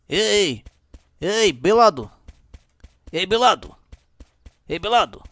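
calling out. Real, not acted. Calling out to another player.

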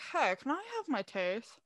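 muffled through cotton, lips barely moving; mouth full of cotton. Retold or imitated. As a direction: talk around a wad of gauze. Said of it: "a bunch of cotton in my mouth".

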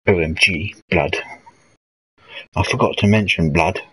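put-on lightly posh old pilot saying slang; posh pilots' street talk. Streamer recalling posh pilots sketch, lightly posh street talk. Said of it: "Posh Pilots".

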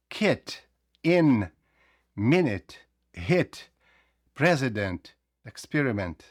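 short lax vowel in "Kit, in, minute, hit"; українське и. Shown as a demonstration. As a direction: say "Kit, in, hit" with a Ukrainian И, word by word. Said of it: "український Е". («Kit», «in», «hit» з українським «и»)

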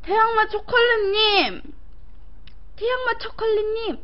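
high thrilled shout of a name; excited calling out. Real, not acted. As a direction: call out delighted. 후원자 부르며 외침. (기뻐서 부르는 외침)

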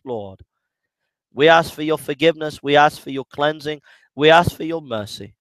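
calm, earnest prayer voice; congregational prayer. Real, not acted. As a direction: pray humbly on behalf of everyone.

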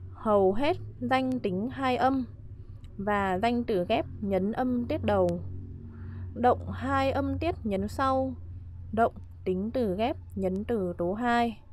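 slow, measured verse recitation; reciting a rhyme. Shown as a demonstration. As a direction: recite it phrase by phrase for students to memorise. Recites her memory rhyme.

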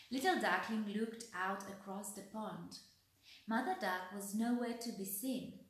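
put-on gentle read-aloud voice for children; expressive picture-book reading; storybook narration. A narrator's reading. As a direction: tell it like a bedtime story.

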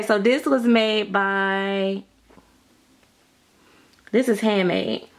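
ordinary talk

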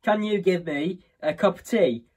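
hammed-up British ghost asking for tea; mock British accent. British ghost begging a cuppa, mock British accent. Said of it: "Ghosts here in America are British".

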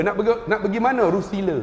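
laju, loghat Terengganu yang diajuk; tanya jalan ke Rusila cara orang Terengganu. Shown as a demonstration. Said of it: "Itu Terengganu". (loghat Terengganu laju sedikit)

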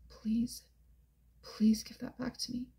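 trembling, breathless whisper, pleading; shaking whisper. A narrator's reading.

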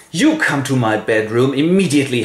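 a touch of royal scolding; stern queen. Acted. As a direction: summon a son, lightly indignant. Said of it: "and the queen goes".

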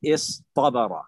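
اصطبر sounded out as iS-Tabara, heavy T; ta turned to emphatic Ta. Shown as a demonstration. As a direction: pause after iS, then a dark T in اصطبر. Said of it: "التاء طاء".

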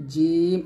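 "জিম" with mid-tongue pressed to the palate, vowel held; mid-tongue palatal J. Shown as a demonstration. Teacher showing where Arabic jim is made, palatal long "জিম". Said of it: "জিহ্বার মধ্যখান তার বরাবর উপরে তালুর".

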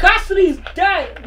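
loud slow proclamation; dramatic announcement. Acted. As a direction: declare it like doom.

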